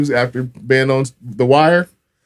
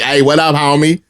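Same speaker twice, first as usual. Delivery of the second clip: higher, playful LA greeting; LA homie accent; 5 semitones higher, 3 dB louder than usual. Retold or imitated. Speaker parodying own hometown talk, LA homie accent. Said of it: "I'll be like".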